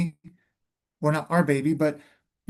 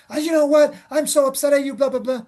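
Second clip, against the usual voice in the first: higher and louder, hammed-up grumbling; mock upset rant; 8 semitones higher, 3 dB louder than usual. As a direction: vent at them before the guests arrive. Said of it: "But before they walked in".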